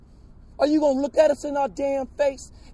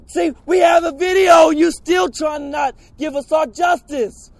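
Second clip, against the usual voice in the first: furious shouting. Real, not acted. Protester shouting at officials.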